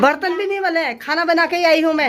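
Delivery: high, loud mock grievance; loud complaint. Real, not acted. To sister-in-law about unwashed dishes, loud mock grievance. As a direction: complain loudly, half teasing.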